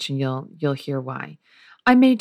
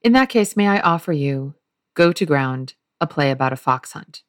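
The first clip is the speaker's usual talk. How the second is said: a hint of Oliver, louder on the opening; Oliver returning; 3 dB louder than usual. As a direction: slip back in with a showman's offer. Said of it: "comes back in speaking".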